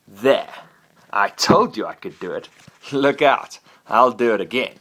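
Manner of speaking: loud, triumphant boasting; triumphant shouts of a young dragon; excited dragon. Acted. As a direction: crow about it proudly. Dragon shows off fire.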